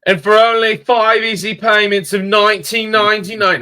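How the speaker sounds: high, loud pitchman sell; infomercial voice. Pretend. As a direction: hype it like a late-night infomercial. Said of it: "I need my infomercial voice here".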